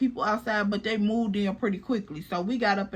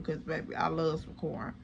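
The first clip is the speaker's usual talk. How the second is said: put-on much softer, lower, cooing "baby"; soft sweet talk; 5 semitones lower, 9 dB quieter than usual. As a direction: purr it low and sweet to him. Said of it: "So I'm like".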